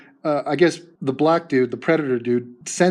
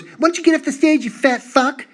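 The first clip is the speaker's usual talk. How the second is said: high mocking shout at a man on stage; mock shrill yell; 9 semitones higher than usual. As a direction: shriek it like an angry harpy. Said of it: "she goes".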